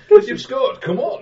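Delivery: excited cheer. Acted. Old lady cheering.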